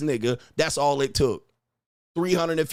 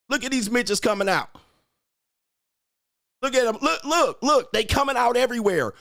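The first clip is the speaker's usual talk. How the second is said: higher and rising, gleeful; higher, mocking glee at the chat; excited; 6 semitones higher than usual. Real, not acted. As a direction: point and crow as they scatter.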